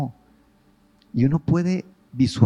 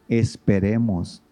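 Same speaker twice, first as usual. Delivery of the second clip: slow gentle urging; slower than usual. Shown as a demonstration.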